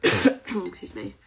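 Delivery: slow, throaty after a cough; coughing on dust. Real, not acted. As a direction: clear the dust, then speak. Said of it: "I just got dust in my mouth".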